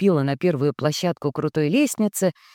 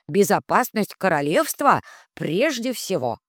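a hint of a kindly magic spirit, raised; lightly voiced wise spirit; 3 semitones higher than usual. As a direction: speak as a gentle guardian spirit. Rom advises Hati. (слегка озвученный мудрый дух)

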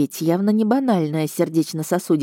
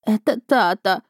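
sobbing; 5 semitones higher than usual. A narrator's reading. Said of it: "всхлипнула домовушка".

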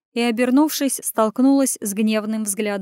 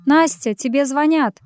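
raised call across the garden, higher; calling louder; 5 semitones higher, 5 dB louder than usual. Acted. Call her name out louder so she hears. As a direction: Lera calls Nastya louder to the phone, raised voice. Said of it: "Уже громче оповестила Лера".

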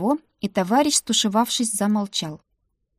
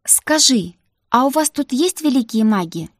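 breathless; 4 semitones higher, 4 dB louder than usual. Acted. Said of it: "с придыханием спросила я".

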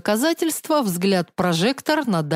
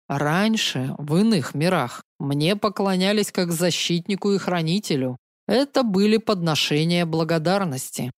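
bitter confession. Acted. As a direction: admit it with old hurt. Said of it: "горько признался собеседник".

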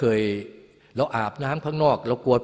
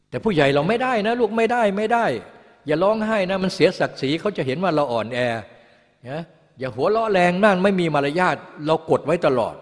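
mock parent scolding a child, pitched much higher; a touch of a nagging elder, higher and a bit louder; 6 semitones higher, 4 dB louder than usual. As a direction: play the strict parent telling the kid to hold it in. Adults scolding child not to cry.

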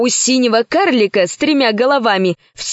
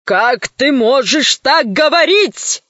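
indignant cry; 3 semitones higher, slower than usual. Acted. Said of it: "закричал в ответ Водечка".

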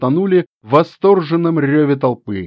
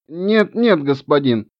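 hasty gnome. Acted. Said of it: "поспешил гном".

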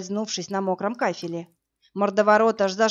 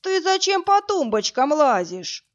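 higher, louder roar; 7 semitones higher, 4 dB louder than usual. Acted. Brute roaring at her over the drawer. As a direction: bellow like a wounded beast. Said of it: "взревел, как раненый зверь".

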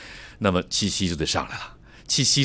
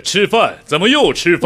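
much higher and louder, theatrical; stage drama voice; 10 semitones higher, 7 dB louder than usual. Retold or imitated. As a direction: declaim like a drama student. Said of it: "舞台剧的那个样子".

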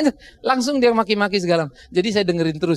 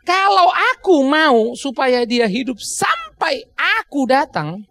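preacher voicing Jesus, firm slow shout; 5 semitones higher, much slower than usual. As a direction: proclaim it like a firm command. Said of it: "dikatakan oleh Yesus dengan tegas".

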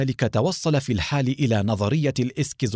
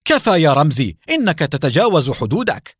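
louder, sharp cutting-in rebuke; stern shout; 4 semitones higher, 6 dB louder than usual. A narrator's reading. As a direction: shut Ramzi down, loud and firm. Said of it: "صاح محمود مقاطعا". (صيحة حازمة عالية)

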